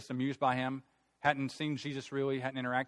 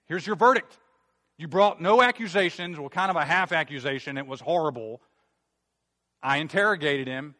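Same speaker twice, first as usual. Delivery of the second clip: exasperated ruling; 3 semitones higher, 8 dB louder than usual. Acted. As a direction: deliver the verdict like a fed-up judge. Preacher voices Pilate's exasperated ruling.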